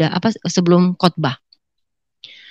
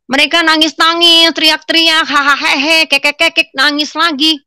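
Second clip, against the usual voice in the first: high, held-up mock wailing; mocking mimicry; 8 semitones higher than usual. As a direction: rattle it off high, imitating a noisy weeping crowd. Mimics the congregation's wailing and shouting.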